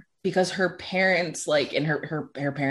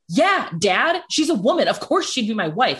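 higher, indignant retort; retold offense; 4 semitones higher than usual. Answering dad about the future wife, retold offended tone. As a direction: act out being mildly affronted by an obvious question. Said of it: "I got really offended".

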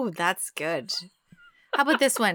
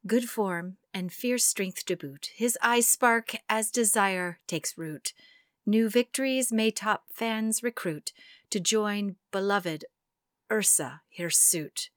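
poem reading; slower than usual. Acted. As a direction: read it gently and deliberately. Reads haiku slowly.

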